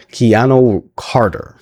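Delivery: Keanu said slowly, KEE-an-oh, stressed first; slowly spelling out Keanu as KEE-an-oh; careful name. Real, not acted. Host carefully trying the wrestler's name, Keanu slowly. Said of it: "get used to his name".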